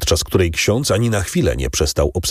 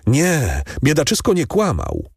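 lightly voiced eager innkeeper, pitched higher; eager Kadrus; 5 semitones higher than usual. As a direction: insist to the priest, higher and earnest.

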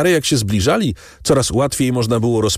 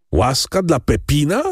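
a restrained narrated shriek, pitched up; wrzask; 8 semitones higher than usual. A narrator's reading. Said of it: "wrzasnął Andrea". (oburzony okrzyk podniesionym głosem)

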